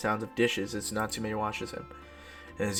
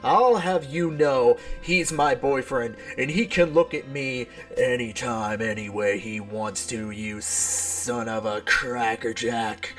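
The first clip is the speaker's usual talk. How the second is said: indignant retort; slower than usual. Acted. Acted indignant retort in quarrel.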